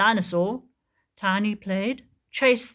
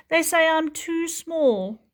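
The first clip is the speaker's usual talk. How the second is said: sad small voice; 10 semitones higher, 4 dB louder than usual. Acted. Sad Tiny.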